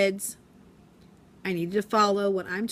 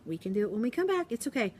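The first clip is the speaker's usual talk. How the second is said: soothing teacher; 3 semitones higher, 5 dB quieter than usual. Retold or imitated. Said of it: "I said".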